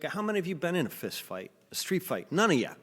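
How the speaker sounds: mock the alpha male's taunt; tough guy taunt. Quoting the tough guy taunting the crowd, macho challenge. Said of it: "that's the way he talks".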